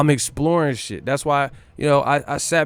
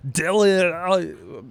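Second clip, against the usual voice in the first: higher, much louder put-on Arnold voice with laughter; Arnold impression; 5 semitones higher, 6 dB louder, slower than usual. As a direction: ham up an Arnold bit, laughing through it. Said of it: "do a fucking Arnold".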